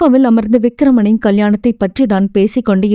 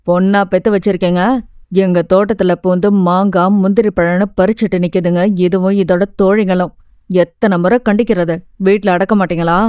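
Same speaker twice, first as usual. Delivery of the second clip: a lightly lowered, mildly angry gardener; 4 semitones lower than usual. Acted. Gardener complaining to the mother about her daughter, mildly angry lowered voice. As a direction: complain at the door, a hint of grumbling anger.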